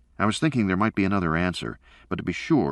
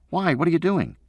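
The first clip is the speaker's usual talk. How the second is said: put-on high, louder boy's voice pleading; a kid wanting his dad home; young son; 12 semitones higher, 4 dB louder than usual. A narrator's reading. Son on the phone asking when his father returns, pleading.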